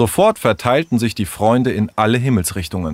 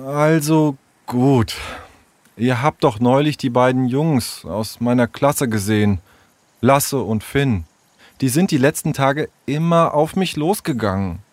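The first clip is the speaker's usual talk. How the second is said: hesitant, lightly voiced young storyteller; reluctant troubled child; 4 semitones higher than usual. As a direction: reluctantly confide in your friends.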